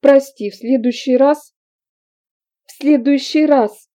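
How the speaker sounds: high, loud bitter mimicry of an apology; mocking angry shout. A narrator's reading. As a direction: throw his apology back at him, shouting. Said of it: "выкрикнула Аглаида".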